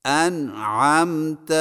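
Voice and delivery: انعمت with the ع fully held and closed before م; firm sukun. Shown as a demonstration. Teacher modelling the held sukun on ع in انعمت. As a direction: set the ع in انعمت solidly, no movement. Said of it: "مشق کیجیے".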